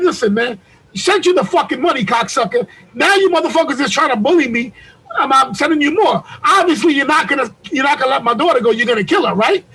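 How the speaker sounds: mild retold yelling; mad yelling. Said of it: "I start yelling at this nigga".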